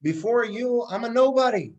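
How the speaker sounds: mock tearful cry to God; rabbi's plea. Rabbi crying to God before the prayers, lightly pleading. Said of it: "he's crying to the Almighty".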